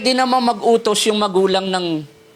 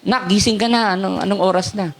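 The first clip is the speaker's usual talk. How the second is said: gentle wake-up. Shown as a demonstration. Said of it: "Pwede mo naman sabihin".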